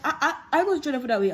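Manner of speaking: loud, high stammering rebuke; high loud reproach; scolding again. Retold or imitated. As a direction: press the newcomer hard. Senior scolding repeated.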